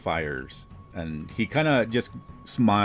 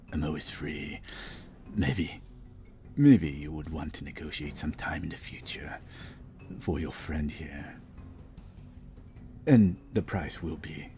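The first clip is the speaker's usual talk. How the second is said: put-on old hag; 3 semitones lower than usual. Devil whispers offer.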